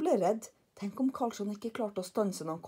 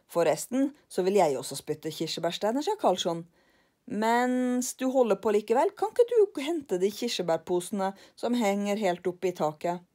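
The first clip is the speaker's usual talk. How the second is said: louder, breezy request; bossy Karlsson; 5 dB louder than usual. Acted. Karlsson asks lillebror to fetch the cherries, louder. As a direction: order him casually.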